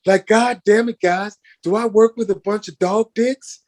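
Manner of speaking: retold furious co-star barking to cut; angry impatient shout. Actor yelling at crew, retold.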